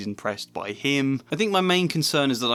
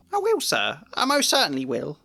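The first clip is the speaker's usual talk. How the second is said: high, eager agreement; fawning poltergeist; 4 semitones higher than usual. A narrator's reading. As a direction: promise anything to escape. Peeves eager to obey.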